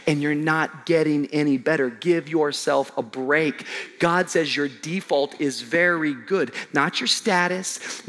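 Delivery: ordinary delivery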